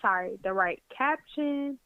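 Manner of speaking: words broken by hiccups; hiccuping through a list. Real, not acted. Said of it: "I start hiccuping".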